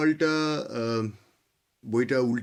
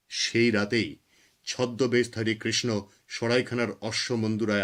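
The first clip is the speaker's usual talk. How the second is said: measured, declaimed Bengali poem with dramatic pauses; poem recitation. Acted. Poet reading their own Krishna poem to listeners, solemn recitation.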